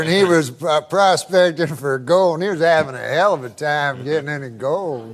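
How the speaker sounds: lightly imitated Southern yarn-spinner; mock Southern good old boy; Southern accent. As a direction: ramble through it with a mild Southern twang. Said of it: "Is he doing a Southern accent?".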